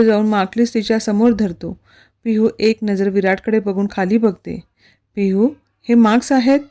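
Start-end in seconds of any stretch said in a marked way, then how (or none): 5.1-6.6 restrained anger, words held back; a touch of clenched fury; through gritted teeth. Acted. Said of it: "विराट दात ओठ खातच बोलतो".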